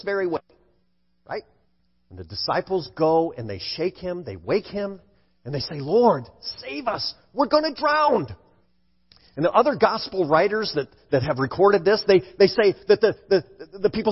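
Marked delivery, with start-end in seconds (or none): 5.8-8.3 mildly panicked plea, rising high on the second part; high, contained cry for rescue; acted pleading. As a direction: voice frightened disciples crying for help, without shouting. Voicing disciples waking Jesus in storm.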